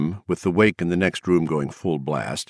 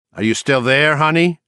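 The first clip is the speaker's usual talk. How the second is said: sarcastic sweetness; 8 semitones higher, 5 dB louder than usual. A narrator's reading. Sarcastic impatience on hold.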